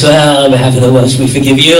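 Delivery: lightly imitated Welsh accent; a hint of a Welshman speaking. Welsh fan granting forgiveness on behalf of Wales, light Welsh accent. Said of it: "he's Welsh".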